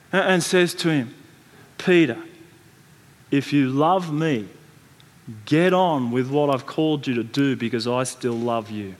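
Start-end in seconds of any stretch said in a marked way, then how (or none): 1.8-8.9 tender reassurance. Acted. Jesus lifts ashamed Peter's head.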